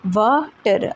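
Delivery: "वाटर" separated into वा and टर; syllable by syllable. Shown as a demonstration. Teacher showing two sounds to learners, "वाटर" said as two separate syllables. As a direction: break "वाटर" into two sounds with a short gap. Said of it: "दो sounds के साथ इसे".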